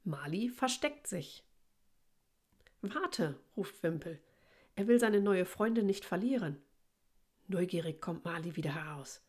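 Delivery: measured read-aloud with lilting character lines; storybook narration with lightly lifted dialogue; children's story reading. Acted. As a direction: read a picture book to young children.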